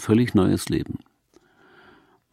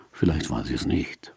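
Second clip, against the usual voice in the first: soft whisper; hushed musing whisper; 9 semitones lower, 7 dB quieter than usual. Real, not acted. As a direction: whisper it with awe. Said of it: "heruntergeflüstert".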